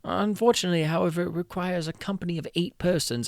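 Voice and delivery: high, eager court-jester voice; Hopfrog pitching a scheme. Acted. The dwarf tempts the king with a frolic, high and eager. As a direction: sell the idea to the king with sly relish.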